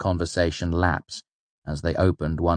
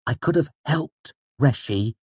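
high, wounded protest; injured tone; 7 semitones higher than usual. A narrator's reading. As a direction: protest as if hurt at being left out. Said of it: "Bast's tone was injured".

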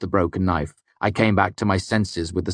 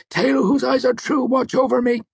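high, shaky pleading chant; trembling prayer. A narrator's reading. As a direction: pray with a trembling voice. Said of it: "Martin's trembling voice".

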